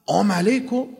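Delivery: "آم علیکم" with the "sal" dropped, rising at the end; mispronounced greeting. Retold or imitated. Preacher repeats the boy's greeting, garbled and questioning. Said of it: "این همون سلام علیکم خودمونه".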